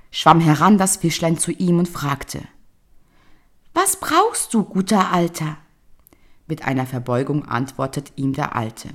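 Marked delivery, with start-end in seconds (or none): 3.7-5.6 fish voice. Acted. Golden fish voice speaking.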